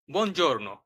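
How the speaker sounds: বনজোর্নো said the Italian way; Italian greeting. Shown as a demonstration. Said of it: "শুভ সকাল বোঝানোর জন্য".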